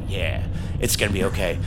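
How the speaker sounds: low, soothing retold promise; mock reassurance. Retold reassuring of worried girlfriend.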